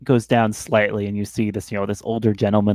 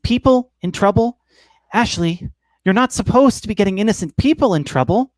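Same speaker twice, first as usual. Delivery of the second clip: a scolding little ladybug conscience, much higher; 7 semitones higher than usual. Acted. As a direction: nag Ashley like a tiny fretful bug buzzing in her ear. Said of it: "and saying".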